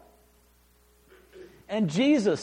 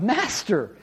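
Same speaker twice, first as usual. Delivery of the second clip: louder, ringing cry of recognition; joyful exclamation; 3 semitones higher, 6 dB louder than usual. Retold or imitated. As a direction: proclaim it with awe and joy. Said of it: "Nathanael exclaimed".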